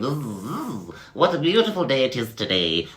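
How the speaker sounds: high, quick, cheerful bee voice; merry bee. Acted. Bee chatting with another bee, high and merry. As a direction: buzz along happily. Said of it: "bees were buzzing along, going".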